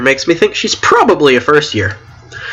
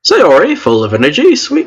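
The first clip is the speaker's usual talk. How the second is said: badly faked Asian accent, name pitched up; attempted Asian accent; 3 semitones higher than usual. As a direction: try a clumsy Asian accent. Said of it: "what Asian accents sound like".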